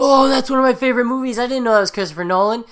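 loud, high, fast delighted surprise; excited. Real, not acted. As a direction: gush about a favorite film. Discovers favorite movie is Nolan's.

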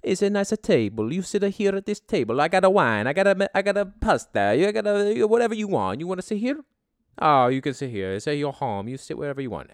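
high, eager pushy street tout pitching tables; Italian restaurant hype man. Retold or imitated. Hype man outside an Italian restaurant luring passersby, high and pushy. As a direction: reel the tourists in like a hustling hype man. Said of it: "Just these dudes that are like".

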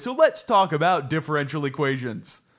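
loud, pushy sales pitch; slick used car salesman. Acted. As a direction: sell it like a car dealer. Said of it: "my used car salesman voice".

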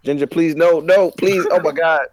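pained, pleading cries at the cat; anguished denial. Real, not acted. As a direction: beg the cat to stop, rising in pitch. Cat clawing him, pleading.

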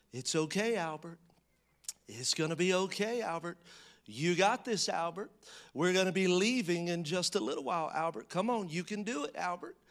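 a dad in a store, hushing himself with a touch of softness; soft soothing voice. Retold or imitated. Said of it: "saying in a soft voice".

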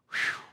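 soft whew of relief; sigh of relief. Retold or imitated. Camera finally pivots off him, acted relieved whew. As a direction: let out a quiet, relieved breath.

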